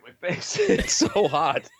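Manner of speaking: slow, hot and winded; gasping under a sweaty mask; out of breath from the mask. Real, not acted. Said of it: "my breath underneath there".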